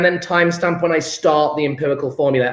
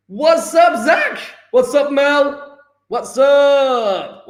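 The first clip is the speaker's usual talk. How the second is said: excited greeting; 8 semitones higher, much slower than usual. Real, not acted. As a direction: hype up each student. Greeting arriving students.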